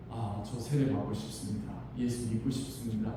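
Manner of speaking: the converted husband asking quietly; husband's humble request. Retold or imitated. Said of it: "이렇게 말하더라는 거죠". (조용한 고백)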